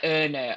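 "Oh, no" with Hull O vowels. Shown as a demonstration. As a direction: say "Oh, no" with the O sounds of Hull. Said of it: "anything with the letter O in it".

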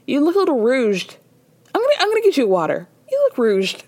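imitating a fussy hostess, a touch high; mock concern. Host voicing Lisa fussing over the captain, mock concern. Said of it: "She goes".

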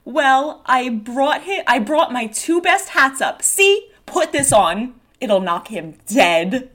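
lightly theatrical, lifted pitch; Dora in character. Acted. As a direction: offer your best hats to a friend. Dora offers hats in scene.

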